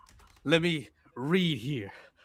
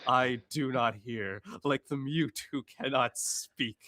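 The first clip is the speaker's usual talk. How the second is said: mock preacher reading scripture; hammed-up sermon reading. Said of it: "With your preacher voice?".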